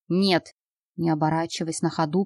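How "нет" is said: крик на бегу. Acted. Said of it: "прокричал Януш".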